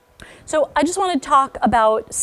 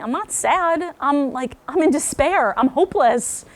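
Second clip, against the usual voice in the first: higher-pitched mock protest; child's protest; 5 semitones higher than usual. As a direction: act out a misunderstood kid insisting on bigger feelings. Voicing a misunderstood child's thoughts.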